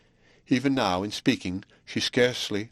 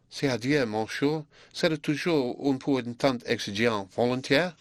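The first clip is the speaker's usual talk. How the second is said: subdued teasing inflection; 4 semitones higher than usual. Acted. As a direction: tease him gently, half shy. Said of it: "new, yet still subdued inflection of the voice, an inflection which provoked".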